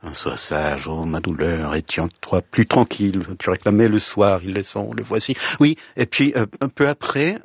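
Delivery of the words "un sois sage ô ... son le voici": measured, reflective reading of Baudelaire; poem recitation. Shown as a demonstration. Recalling his teacher's Baudelaire for the host, understated poetic recitation. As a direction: recite the verse gently, as a poem. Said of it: "à déclamer".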